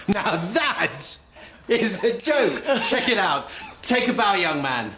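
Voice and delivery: high, gleeful crowing through laughter; laughing triumph. Acted. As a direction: crow over a prank that worked. Doctor gloats after counter-prank.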